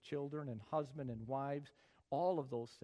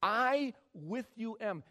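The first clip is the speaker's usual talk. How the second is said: a hint of Yoda in I with you am; slow, louder I with you am; Yoda talk; 7 semitones higher, 8 dB louder, slower than usual. Shown as a demonstration. Preacher doing Yoda talk for the congregation. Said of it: "Yoda talk".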